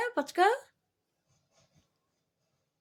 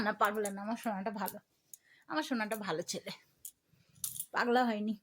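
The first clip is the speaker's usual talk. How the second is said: soothing pet talk; 5 semitones lower, 7 dB quieter than usual. Real, not acted.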